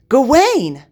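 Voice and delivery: loud, high angry bellow; king shouting after a fleeing knight, bellowing. A narrator's reading. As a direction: roar his name across the hall. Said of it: "Arthur bellowed".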